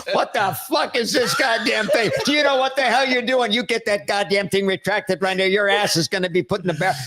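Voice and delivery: mock furious president chewing out a general; Kennedy cursing. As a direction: rant at him, half laughing. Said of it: "you hear him going".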